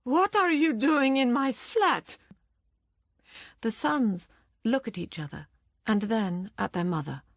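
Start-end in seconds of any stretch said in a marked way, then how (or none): 0.0-2.2 put-on high, frail old woman's quaver. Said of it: "in a quavering voice".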